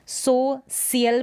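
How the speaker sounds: "सोशियल" with plain s, not sh; wrong s pronunciation. Shown as a demonstration. Teacher rejects a misreading of social, wrong s pronunciation. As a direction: say "सोशियल" as so-si-yal. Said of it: "भी नहीं पढ़ रहे हैं".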